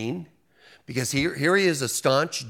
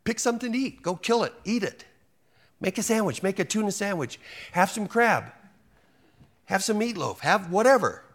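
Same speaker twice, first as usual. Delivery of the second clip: God commanding; 6 semitones higher than usual. Retold or imitated. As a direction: voice God urging Peter to eat anything. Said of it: "and says".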